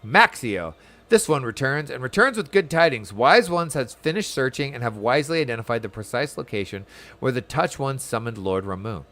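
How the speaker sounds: lightly acted messenger bearing tidings; dialogue read aloud. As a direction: announce it formally, like a game messenger.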